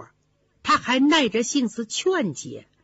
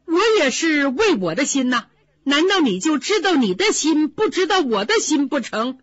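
raised higher and louder, hurt and insistent; indignant protest; 4 semitones higher, 3 dB louder than usual. Acted. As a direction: press each question, wounded. Daiyu protests to Baoyu.

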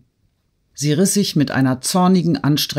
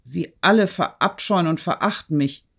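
higher-pitched, distraught dismissal; narrated cry; 4 semitones higher than usual. A narrator's reading. Girl on the divan sending the woman away, high distraught cry. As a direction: drive them away with raised pitch, not full volume. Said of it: "Natalie schrie ihr zu".

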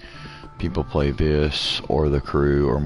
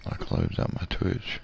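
muttered to self; 7 dB quieter than usual. Real, not acted. Muttering after closing stream.

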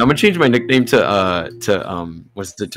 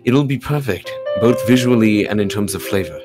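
measured, formal character voice; polite perfectionist character; 4 dB quieter, slower than usual. Acted. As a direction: read as a composed perfectionist musing aloud. Reads game character lines.

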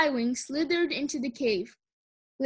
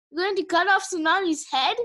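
high squeaky alarmed question; squeaked; 6 semitones higher, 4 dB louder than usual. A narrator's reading. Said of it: "Sunny squeaked".

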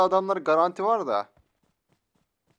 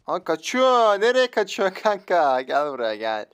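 louder, raised call after someone fleeing; taunting call; 4 dB louder, slower than usual. Pretend. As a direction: drawl it out, calling after a runaway. Calls after fleeing opponent. (kaçanın arkasından alaycı sesleniş)

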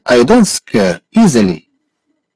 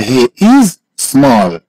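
slow, word by word, stretching "is"; slow model; much slower than usual. Shown as a demonstration. Teacher models "he is small" for a student, slowly. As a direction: hold "is", pause, then a separate "small".

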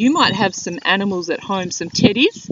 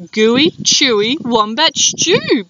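boasting; slower than usual. Acted. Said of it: "boasted Dingo".

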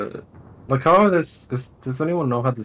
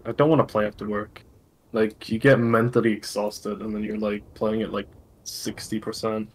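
tired voice. Real, not acted. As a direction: sound worn out after a workday. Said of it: "I think you're using a tired voice voice changer".

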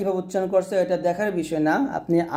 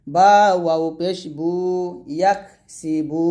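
spelling drill. Shown as a demonstration. Teacher spelling Arabic syllables aloud for students, sing-song drill. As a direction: chant each letter and vowel mark for the class.

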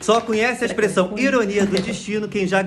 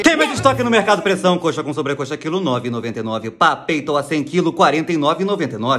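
announcer patter sinking much lower in pitch; supermarket sale announcer; 7 semitones lower than usual. Retold or imitated. Store announcer breaking into a meditation with offers, announcer voice. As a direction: hawk the prices like a store announcer.

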